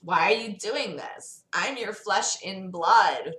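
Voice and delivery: a lightly voiced different character; character voice instead of narrator; Damian's voice. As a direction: redo the line in Damian's own voice. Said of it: "that was Damian saying this".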